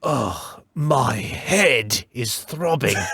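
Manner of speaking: put-on thoroughly fed-up, exasperated British accent. Acting in a scene opposite a partner: exasperated British accent. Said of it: "in the British accent, and then just like quite so exasperated".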